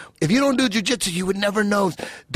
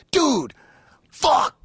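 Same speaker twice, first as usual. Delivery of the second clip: shouting; 9 semitones higher than usual. Retold or imitated. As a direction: cry out in dismay. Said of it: "I'm like".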